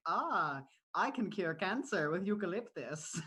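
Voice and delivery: slow, preachy Karen voice; mock know-it-all Karen. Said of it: "all the Karens are like".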